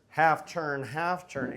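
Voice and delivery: a hint of a country guy on horseback; mock cowboy turn. Shown as a demonstration. Instructor mocking his own clumsy cowboy turn, lightly voiced. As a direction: ham up the cowboy as a joke. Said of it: "I might do it like a country guy, like I'm riding a horse".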